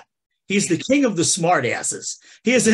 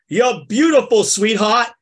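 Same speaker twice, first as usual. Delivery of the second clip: smartass; 3 semitones higher, 4 dB louder than usual. Retold or imitated. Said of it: "being a smartass, says".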